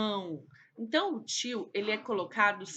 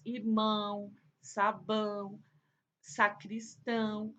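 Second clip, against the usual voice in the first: "irmão, sabão, sacristão" with a long final ão; slow teacher's examples, "irmão, sabão, sacristão" held on ão; stressed final syllable; slower than usual. Shown as a demonstration. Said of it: "que é a sílaba mais forte".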